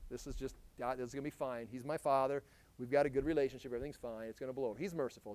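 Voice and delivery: low, soft, offhand imitation; complacent people. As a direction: lightly mimic people shrugging it all off. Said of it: "Your talk is like".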